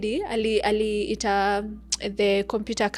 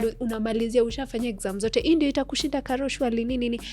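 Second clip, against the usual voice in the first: reassuring teacher. Retold or imitated. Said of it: "She was like".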